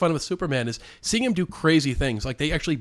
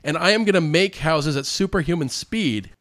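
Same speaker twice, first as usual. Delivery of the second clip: acted-out righteous scolding, a bit higher; mock indignation; 3 semitones higher, 3 dB louder than usual. Superman threatens a crooked landowner, mock indignant. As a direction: take a crook to task, play-indignant.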